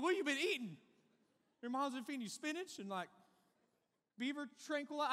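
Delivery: high, loud incredulous jab; amazed mock. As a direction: marvel loudly at how huge he is. Mocking the huge kid's size.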